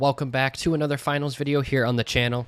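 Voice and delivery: stuffy nose from the flu; blocked nose, just over the flu; nasally voice. Real, not acted. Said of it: "Excuse my nasally voice".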